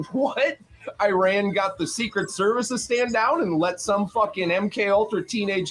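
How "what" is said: mock disbelief. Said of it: "we were all like".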